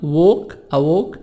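British "walk" with rounded o; British vowel in "walk". Shown as a demonstration. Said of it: "نطق البريطاني".

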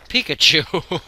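shouted, rising in disbelief; loud shout. Real, not acted. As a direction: yell the name at the screen. Shouting at Pokemon.

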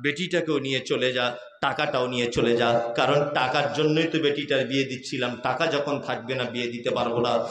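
a touch of hopeless resignation; mild despairing old woman. Acted. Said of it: "দিয়ে বলছে". (হতাশ বুড়ির নিচু গলা)

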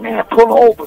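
retold cop shouting pull over; mock trooper yell. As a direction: yell it at the car next to you. Trooper yelling from beside car.

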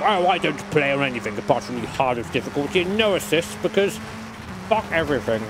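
lightly voiced snooty sim racer, barely off his own voice; a hint of a sneering hardcore gamer, played for a laugh; mock elitist snob. Streamer mocking hardcore sim racing snobs, lightly voiced snob. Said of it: "I might have to be like a proper sim racing elitist snob".

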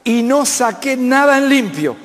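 a hint of a puzzled businessman; businessman friend's voice. Businessman friend tells the preacher Levíticos made no sense, puzzled. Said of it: "me dijo".

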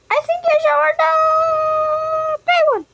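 high, loud, rushed advice; shouting. Acted. Sibling picking the outfit, fast loud excited shout. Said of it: "Why are you shouting?".

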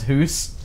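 hoose said with an oo vowel instead of ow; imitating a Swedish friend's hoose; hoose for house. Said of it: "he talks about his hoose".

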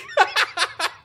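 a high burst of laughter. Real, not acted. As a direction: laugh at your own story. Laughs at own retort.

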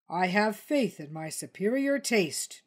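a hint of wounded pride; huffily. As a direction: sniff it out, offended. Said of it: "Tony said rather huffily".

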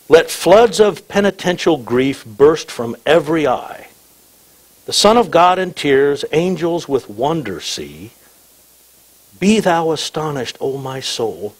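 slow, measured recital of verse; hymn lyric reading. Acted. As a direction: read the old hymn slowly, each line given room. Reads hymn lyrics aloud.

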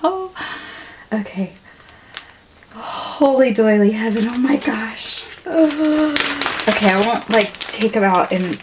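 ordinary talk

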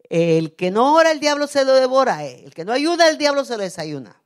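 loud, high-pitched chant-like warning; emphatic quoted saying. Retold or imitated. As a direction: belt out the saying, rising then falling. Quotes a young man's catchy saying. (refrán proclamado en voz alta y aguda)

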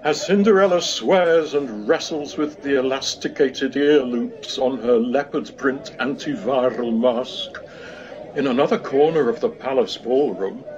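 normal talking voice

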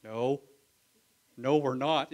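loud firm calm refusal. Acted. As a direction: say no plainly and loudly, no arrogance. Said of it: "they even say it like that".

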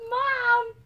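put-on high, whiny child calling out; kid calling Mom. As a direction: call out like a needy little kid. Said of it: "He's like".

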